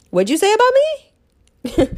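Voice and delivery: high, slow, challenging question; mock confrontation. New Yorker confronting someone who insulted her, mock outrage.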